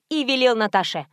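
ordinary delivery, nothing marked

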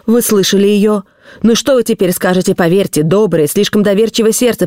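a hint of scornful vindication; triumphant accusing husband. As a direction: press the point on a doubting wife.

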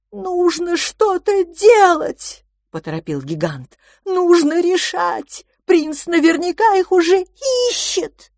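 high, slow giant monster voice, full of alarm; a huge creature fretting for the children; big childlike monster in a panic; anxious giant. Acted. Giant urges them on.

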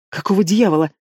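ordinary delivery, nothing marked

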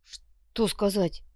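slow, hushed question; whisper. A narrator's reading. Копыта secretly asks his boss what to say, whispering. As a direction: whisper for a prompt. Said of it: "прошептал Копыта".

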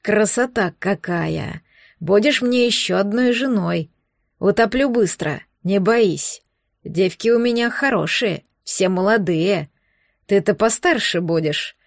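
low, slow gloating monster voice. Acted. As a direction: savour each word, low and leering. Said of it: "злорадно приговаривает".

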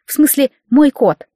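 usual speaking voice

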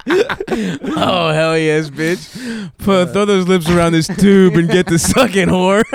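high squealing laughter between crude yells; laughing hysterically. Real, not acted. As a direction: cackle it out, loud and high. Hysterical laughing crude mock order.

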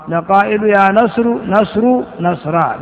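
first نصر ending in short "-u", no n; نصر as "nasru", نصرا as "nasra"; without tanween. Shown as a demonstration. Teacher quoting a verse, نصر voweled without tanween. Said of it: "بدون تنوين".

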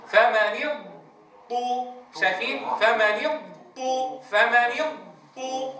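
فمن اضط with ض held long before ط, slowly; teacher modelling the correct slow اضط; correct stretched dad. Shown as a demonstration. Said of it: "يعطي الضاد حقها من الاستطالة".

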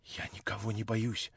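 quiet, understated irritation; soft but testy; irritated. A narrator's reading. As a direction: deny it with muted annoyance. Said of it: "с каким-то раздражением в голосе".

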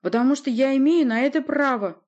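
high, loud, angry assertion; barked retort. A narrator's reading. Sorceress interrupts the boyar's questions, barked retort. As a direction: bark it over the objection. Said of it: "рявкнула Власта".

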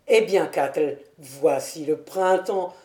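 satisfaction posée, plus grave; sourire satisfait. A narrator's reading. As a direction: annoncer lentement, avec un sourire content. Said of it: "lui dit avec un sourire de satisfaction". (ton satisfait, voix plus basse)

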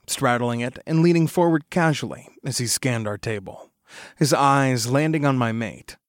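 plain reading voice

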